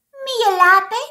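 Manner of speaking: high, loud protest; indignant shout. Acted. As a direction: call out crossly as the laughed-at hedgehog. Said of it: "φώναξε". (αγανακτισμένη φωνή)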